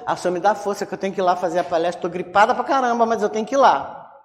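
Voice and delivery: rattled off fast, half-joking prayer; hurried mock plea. Sick speaker asking the Lord for strength, hurried mock plea. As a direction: rush through the plea in one go.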